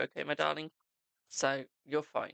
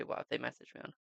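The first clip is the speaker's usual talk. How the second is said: mock whisper; 4 semitones lower, 6 dB quieter, faster than usual. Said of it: "I hate it when people go".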